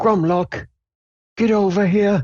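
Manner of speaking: very high, faint, far-off distant calling voice. Voicing someone calling from beyond a door: faint voice in the distance. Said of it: "a faint voice in the distance say".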